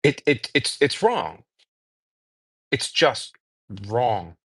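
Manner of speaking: troubled, halting conviction. Real, not acted. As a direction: struggle for words, deeply bothered by an injustice. Halting, upset moral condemnation.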